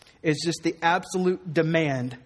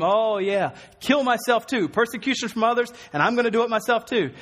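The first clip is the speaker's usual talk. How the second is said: mock gloomy voice; 5 semitones higher than usual. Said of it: "this isn't an appeal to gloom".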